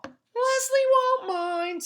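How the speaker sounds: high, slow sly coaxing; coaxing pigtail. A narrator's reading. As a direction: drawl it out to seduce him. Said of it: "said the pigtail".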